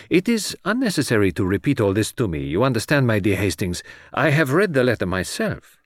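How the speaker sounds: lightly voiced foreign detective, precise and patient; Poirot, mildly dismissive. Detective has read the letter himself, mildly dismissive. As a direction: gently cut short the recital.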